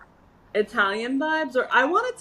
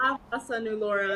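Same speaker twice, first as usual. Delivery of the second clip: imitating ah; 4 dB quieter, faster than usual. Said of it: "So yours is like".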